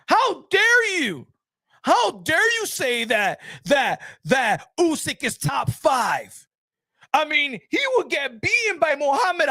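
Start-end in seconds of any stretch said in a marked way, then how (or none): 0.1-6.5 drawn out like a soap opera diva, half sung; mock outrage. Streamer mock-scolds chat over Usyk, slow, hammed-up outrage.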